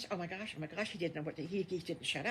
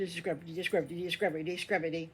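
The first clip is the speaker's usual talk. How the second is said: rhythmic scrubbing; much slower than usual. Acted.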